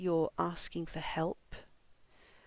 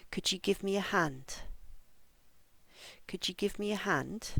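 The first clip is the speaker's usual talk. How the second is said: "give" and "hand" stressed, small words light. Shown as a demonstration. Teacher models asking for help, stress on "hand". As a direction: stress "hand", keep "a" weak and short. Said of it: "I'm going to read the phrases".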